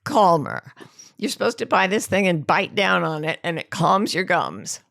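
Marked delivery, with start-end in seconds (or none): 0.0-0.7 slow, dreamy ad voice; slow soothing ad line; slow ad read. Retold or imitated. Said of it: "that is what the ad said".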